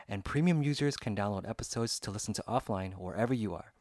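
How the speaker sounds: upbeat, even podcast sponsor read. Acted. Host reading a Spotify ad to listeners, smooth ad read. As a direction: sell it like a radio spot.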